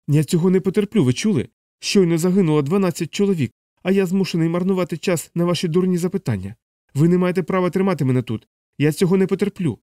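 high-pitched furious tirade; out of patience. Acted. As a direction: rant in outrage, pitch held up. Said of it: "Терпець йому остаточно урвався".

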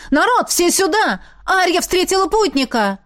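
high, eager call to all. A narrator's reading. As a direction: summon the crowd excitedly. Calling everyone over. (зовёт всех, высоко)

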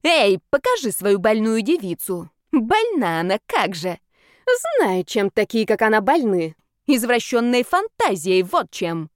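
loud, slow, sneering accusation; scandalous accusation. Acted. Brawling woman jeering to the crowd, loud and sneering. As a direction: jeer at the sick girl in front of everyone.

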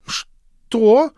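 high, loud startled cry; shocked what. A narrator's reading. Mary hears her clothes went out the window, shocked and loud. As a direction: jolt up in disbelief.

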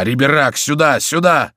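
high, loud summons; calling out. A narrator's reading. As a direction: shout for a friend to come. Calling a friend over.

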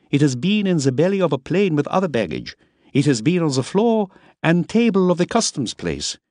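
put-on French-sounding accent. A narrator's reading. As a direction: lecture on dirty baggage, French-sounding accent. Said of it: "His accent had no American inflections".

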